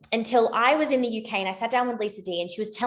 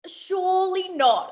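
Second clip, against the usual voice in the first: disbelief; 9 semitones higher, slower than usual. Real, not acted. Reacting to the big numbers.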